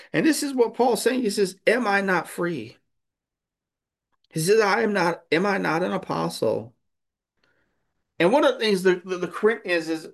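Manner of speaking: high, fervent pulpit voice; preaching. Acted. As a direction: preach Paul's questions with conviction. Preaching, voicing Paul and Corinthians.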